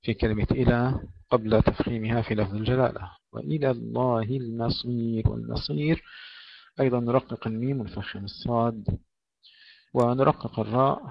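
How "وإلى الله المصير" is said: "وإلى" light laam, then heavy "الله"; tajweed demo. Shown as a demonstration. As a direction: recite "وإلى الله المصير" with care. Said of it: "ترقيق اللام هنا".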